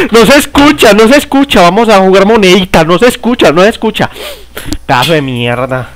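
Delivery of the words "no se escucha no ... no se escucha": high mocking singsong chant. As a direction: taunt it in a high sing-song. Imita voz burlona jugando. (burla cantada en tono agudo)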